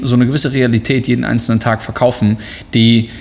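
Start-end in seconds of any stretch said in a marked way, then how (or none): 2.8-3.1 sneezing. Real, not acted. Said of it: "Ich musste niesen".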